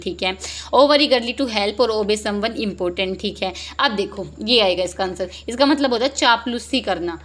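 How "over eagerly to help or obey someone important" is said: slow reading. Shown as a demonstration. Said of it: "reading options slowly".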